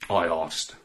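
ordinary delivery, nothing marked

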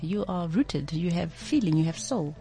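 soft, smooth and soothing; buttery voice. Real, not acted. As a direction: let each phrase melt softly. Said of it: "buttery, uh, voice".

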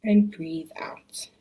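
slow, low breathy whisper; soft spa whisper. Acted. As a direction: let the words drift out in a whisper. Whispered exhale cue.

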